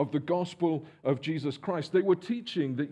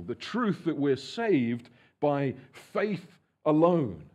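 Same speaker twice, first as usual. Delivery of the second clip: ordinary delivery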